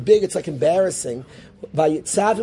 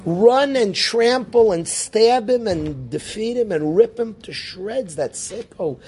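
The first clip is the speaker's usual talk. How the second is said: hammed-up call to fight; vengeful outburst; 4 semitones higher than usual. Rabbi voicing the gut urge against Parai, mock fury.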